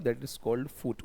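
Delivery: slow, deliberate 'that is called foot'; slow explanation. Shown as a demonstration. Teacher defining foot for students, slowly. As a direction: draw the words out for learners. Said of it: "teacher explains foot".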